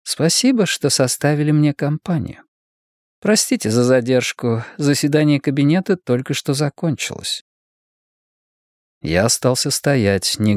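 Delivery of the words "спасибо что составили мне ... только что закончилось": lightly voiced woman in a higher register; politely receive a late-night guest; courteous woman leader. Voices Gladstone greeting Severn. (вежливая руководительница, голос повыше)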